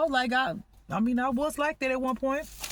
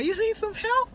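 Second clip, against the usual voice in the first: high, sing-song mock offer of help, much higher; mocking fake concern; 11 semitones higher than usual. Imitating laughing strangers who fake concern, high mock sing-song. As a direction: sneer the offer like a fake friend. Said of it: "They start laughing and say".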